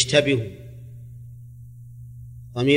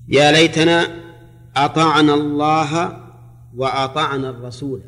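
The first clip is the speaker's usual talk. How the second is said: Quran recitation; 3 dB louder than usual. Shown as a demonstration.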